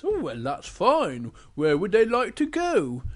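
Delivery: lightly voiced pigeon, pitch swooping; storybook pigeon. Pigeon replies to the princess, lightly voiced swoop. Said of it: "And the pigeon says".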